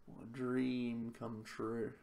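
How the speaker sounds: slow, deadpan sarcastic drawl. Real, not acted. Player mocking his terrible draw, slow and deadpan sarcastic. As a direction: stretch it out, dripping sarcasm.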